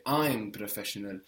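"I'm" as the prominent word; stress on I'M. Shown as a demonstration. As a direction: lean on "I'm" to stress who it is. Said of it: "if you wanted to stress and say".

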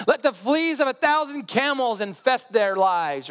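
high, slow hammed-up curse; mock vengeful prayer. Praying a curse on your enemies, mock fervour. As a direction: pronounce it as a grand mock curse.

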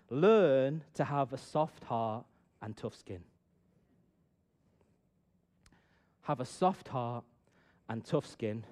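slow sermon emphasis; slow maxim. Shown as a demonstration. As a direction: deliver the maxim with weight. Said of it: "preaching key maxim".

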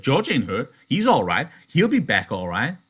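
loud, forceful insistence; Lenny insisting. Acted. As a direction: hammer the point home.

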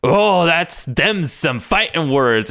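slow, drawn-out mock challenge; mock tough-guy challenge. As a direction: drag out a playful fighting retort. Logan's mock fighting talk, drawn out.

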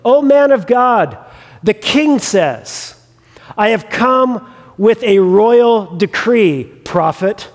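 calling out in a measured, mild yell; mock yelling captain. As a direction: act out a captain's proclamation, slowly drawn out. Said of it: "the captain is yelling out to him".

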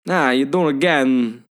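lightly put-on New Yorker impression; a hint of mock tough-guy accent; Christopher Walken. Riffing on the actor's odd accent, lightly mimicked. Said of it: "like a young Christopher Walken".

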